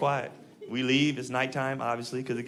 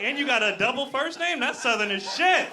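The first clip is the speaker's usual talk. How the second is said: higher, delighted and giddy; excited delight; 9 semitones higher, 3 dB louder than usual. Retold or imitated. Customer thrilled by the waitress's double name, giddy and higher. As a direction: relish every word. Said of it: "I'm like".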